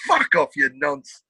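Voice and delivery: put-on Essex accent. Retold Essex put-down, acted slowly.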